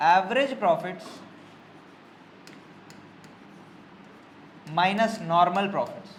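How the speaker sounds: each word spaced out slowly for notes; slow dictation. Shown as a demonstration. Teacher dictating the formula to students, slow and spaced. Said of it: "super profit का formula ही क्या है?".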